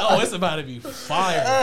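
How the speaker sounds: high, loud laughing mock hype; laughing while quoting his own excitement; laughing quote. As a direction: quote it through a big laugh. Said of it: "I was like".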